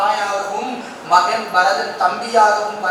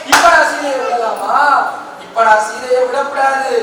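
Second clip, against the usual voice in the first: lamenting king; 3 semitones higher, 3 dB louder than usual. Acted. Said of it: "உட்கார்ந்து புலம்புற".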